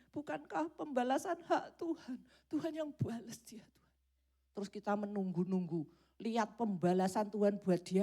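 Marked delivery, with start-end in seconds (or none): 0.1-2.2 higher, crying plea; a teary, self-pitying appeal to God; mock crying prayer to God; tearful prayer. 2.5-3.9 hushed secret wish for revenge; whispered revenge prayer, said inwardly. Acted. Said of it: "Dalam hati kita kan gitu".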